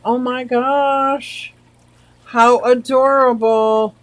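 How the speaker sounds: slow, drawn-out oh my gosh; cooing. Real, not acted. Streamer cooing at the chat's puppies. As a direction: coo over the puppies.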